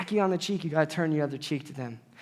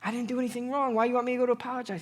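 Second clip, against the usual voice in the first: indignant outburst; 5 semitones higher, faster than usual. Retold or imitated. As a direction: whine it out, higher and fast. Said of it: "Whoa, whoa, whoa, Zach".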